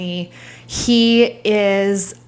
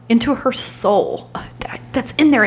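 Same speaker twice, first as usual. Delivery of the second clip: whisper; 3 semitones higher than usual. Real, not acted. Peering into her own soul.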